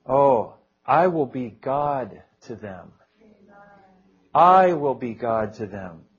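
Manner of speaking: slow, drawn-out prayerful repetition; prayer-reading. Acted. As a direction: pray the verse slowly, savouring each word. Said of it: "begin to shake it with prayer".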